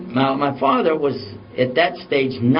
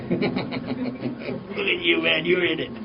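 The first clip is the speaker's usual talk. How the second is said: imitating dad tickled by it all; amused father teasing, laughing as he talks; cracking up; 2 semitones higher, 5 dB quieter, much slower than usual. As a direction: retell it through laughter. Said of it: "and he's cracking up".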